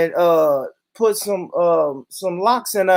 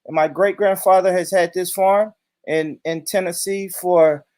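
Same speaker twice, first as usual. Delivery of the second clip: Todd. Pretend. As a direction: protest as a lightly parodied white man. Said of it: "transform myself into a rich white man".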